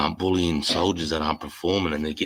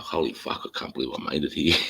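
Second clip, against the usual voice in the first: disbelieving joy; 2 semitones lower than usual. Retold or imitated. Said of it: "I was like".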